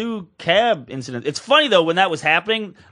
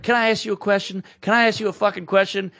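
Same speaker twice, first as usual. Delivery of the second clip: retold irate lady; 4 semitones higher than usual. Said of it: "she was this crazy Asian lady".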